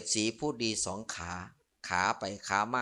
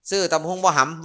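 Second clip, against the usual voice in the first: loud, higher street-vendor call; calling out to a passer-by; 6 semitones higher, 9 dB louder than usual. Retold or imitated. Monk retelling a papaya-salad vendor calling him, loud hawker's call. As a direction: holler it across the road at a passer-by.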